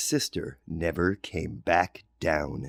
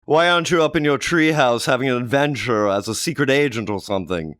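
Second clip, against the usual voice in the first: lightly voiced mother, a bit louder; motherly; 4 semitones higher, 5 dB louder than usual. Johnny's mother asks why he isn't playing, lightly voiced. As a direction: coax him like a mom.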